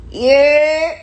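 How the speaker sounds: loud, high, drawn-out holler; rising hometown call-out; New York "yerr" call. Shown as a demonstration. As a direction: holler a street call across the block. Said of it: "learn how to year too".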